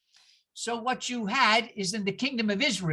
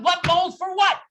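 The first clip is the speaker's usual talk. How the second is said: higher, louder baffled reply; baffled Sorkin; 7 semitones higher, 5 dB louder than usual. Retold or imitated. Sorkin shouting back at Maureen, baffled. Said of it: "Sorkin is going".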